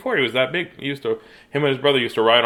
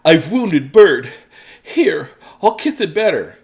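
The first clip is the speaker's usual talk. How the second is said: raccoon voice; 4 semitones higher, 6 dB louder, slower than usual. Acted. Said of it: "said Raccoon".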